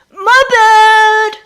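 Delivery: high, loud quick apology; called out. Acted. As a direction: shout sorry across the room. Lucius apologizing after drenching teachers.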